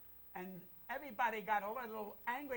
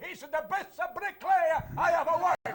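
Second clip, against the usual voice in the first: quoting the praise while laughing, louder and higher; 6 semitones higher, 8 dB louder than usual. Retold or imitated. Comedian quoting the union's praise of him, laughing loudly. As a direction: let laughter break into the boast.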